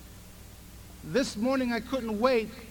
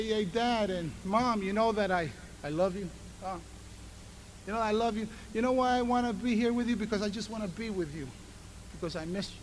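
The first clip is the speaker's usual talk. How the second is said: put-on tender child's voice; 3 semitones lower, 4 dB quieter than usual. Child voiced lovingly to parents.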